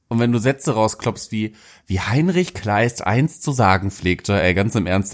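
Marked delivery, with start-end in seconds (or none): 1.9-4.4 slow, stilted, self-important quote; pompous quoting. Retold or imitated. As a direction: sound grand while quoting a classic. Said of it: "dann findet er dich komisch".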